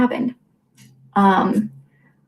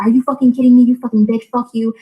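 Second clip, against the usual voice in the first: higher, louder mock outburst; imitating angry brother; 4 semitones higher, 5 dB louder than usual. Brother cursing at sister in a fight, angrily imitated. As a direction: act out his furious insults, pitch pushed up.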